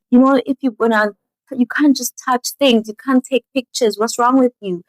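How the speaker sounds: lightly acted store lady telling someone off; scolding. Store ladies to the woman touching bags, scolding.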